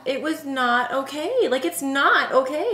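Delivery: slow, mildly aggrieved protest; mock dismay. Fan protesting how the show ended, mock dismay. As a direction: drag it out as a half-joking complaint. Acts out lingering dismay at ending.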